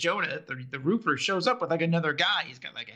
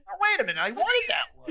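mock disappointed; 12 semitones higher than usual. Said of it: "you're like".

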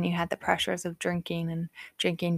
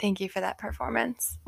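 whispered; 2 semitones higher, 6 dB quieter than usual. Real, not acted. Host reacts to impression.

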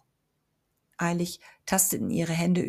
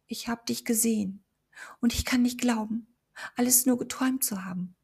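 higher, hushed disbelieving whisper; soft whisper; 5 semitones higher than usual. A narrator's reading. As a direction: whisper it to yourself. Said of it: "flüsterte Amber leise".

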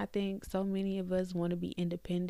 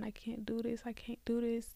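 retold crying in a whisper; imitating her own tearful whisper; 3 semitones higher, 4 dB quieter than usual. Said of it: "when I started crying and I was saying".

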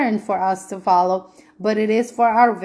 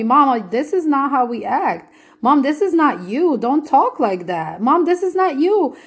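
lightly voiced daughters, higher and pleading; a child gently scolding her mother, pitch climbing; daughters scolding mom; 4 semitones higher than usual. Her two daughters correcting mom, a higher pleading child voice. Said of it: "and they'll tell me".

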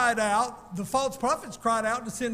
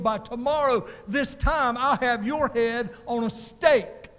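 threatening queen; 2 semitones higher, 4 dB louder than usual. Retold or imitated. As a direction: promise his death tomorrow, rising to a roar. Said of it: "what Jezebel really was saying".

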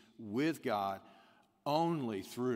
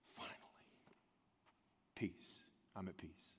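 much softer, lower breathed whisper; whispered peace; 5 semitones lower, 15 dB quieter than usual. Acted. Person at rest after justice, whispering peace. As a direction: sink into rest as you say it. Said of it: "sees justice net out and says".

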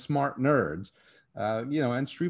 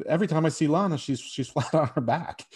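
amused quoting; 4 semitones higher than usual. Retold or imitated. Recounting a line he found funny.

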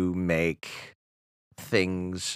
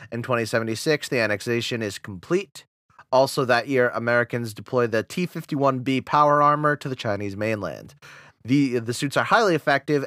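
steady newsreader read of the timeline; announcer voice; 3 semitones higher than usual. Acted. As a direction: narrate it like a history documentary.

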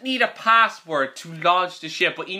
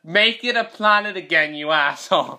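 Neil deGrasse Tyson; 3 dB louder than usual. Retold or imitated. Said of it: "Neil deGrasse Tyson".

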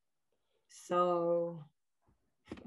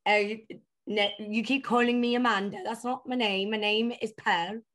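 lightly acted indignant alter ego; Pearl; 2 semitones higher than usual. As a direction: switch into a playful put-on character, objecting. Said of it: "I'll switch into somebody else".

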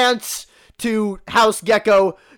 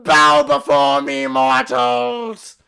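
booming god voice; 2 semitones higher, slower than usual. Acted. God character's proclamation.

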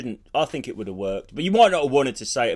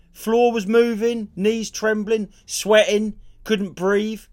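retold panic; 5 semitones higher, slower than usual. Reliving panic attack on stage.

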